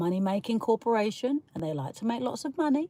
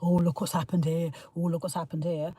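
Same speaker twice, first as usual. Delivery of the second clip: mocking sharer; 5 semitones lower, 4 dB quieter than usual. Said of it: "just share content and say".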